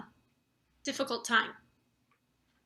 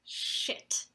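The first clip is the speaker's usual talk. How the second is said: breathy whispered swear under the breath; whispered curse; 8 dB quieter than usual. Acted. Spotting government people, a whispered curse. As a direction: hiss it to yourself.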